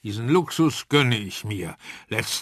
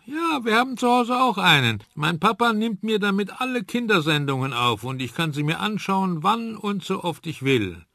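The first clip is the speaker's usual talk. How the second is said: put-on eager child; 7 semitones higher than usual. A narrator's reading. Kind erklärt eifrig.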